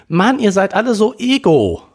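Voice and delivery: hohe, verärgerte Stimme, anklagend; fauchend. Acted. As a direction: faucht alle vorwurfsvoll an. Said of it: "fauchte Melanie". (verletzte Schwester faucht Bruder vorwurfsvoll an, hoch und gereizt)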